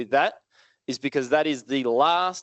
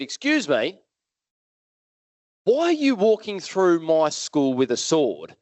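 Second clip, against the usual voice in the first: put-on little kid voice; 4 semitones higher, slower than usual. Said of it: "this little voice popped up at me and said".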